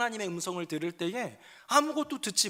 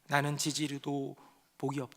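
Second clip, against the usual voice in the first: despairing lament; 3 semitones lower, 3 dB quieter than usual. Acted. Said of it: "낙담과 체념의 눈물의 기도입니다".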